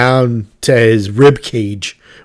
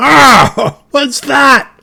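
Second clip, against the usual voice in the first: very high shout, muffled; 14 semitones higher, 4 dB louder than usual. Voicing a masked character who was just hit, shouting in character. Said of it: "he shouts out".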